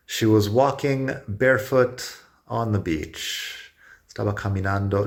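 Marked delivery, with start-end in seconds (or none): 0.1-3.7 slow model sentence. Shown as a demonstration.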